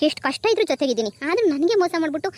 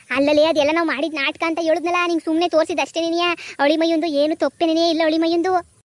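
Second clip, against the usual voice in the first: mother's voice, insisting; 3 semitones higher than usual. Acted. Mother insists it was an act.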